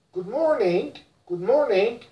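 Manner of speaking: American good morning, plain rise; American accent. Shown as a demonstration. Teacher models American good morning: American accent. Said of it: "in American".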